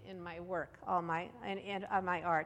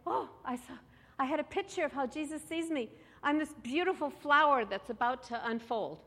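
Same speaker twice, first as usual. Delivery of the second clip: lightly voiced sweet little lady, pitched higher; 5 semitones higher than usual. Sweet little ladies sharing their visions at a workshop, lightly imitated. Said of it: "Sweet little ladies were saying".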